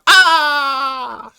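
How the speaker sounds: a big high cry to cap the reading; triumphant yell. Pretend. Streamer caps the mock reading with a triumphant yell. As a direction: belt a flourish like a finale.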